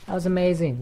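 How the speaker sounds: high, drawn-out wow of hammed-up awe; mock amazement. Gamer quoting own reaction to a shot, mock-amazed. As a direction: go high and stretch the wonder. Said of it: "I was like".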